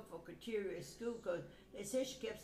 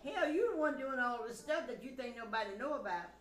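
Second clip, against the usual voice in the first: louder, heated retort to her sister; retold anger; 4 semitones higher, 5 dB louder than usual. Telling her sister off, heated and louder. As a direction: let the old anger back in. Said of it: "I lost my cool again".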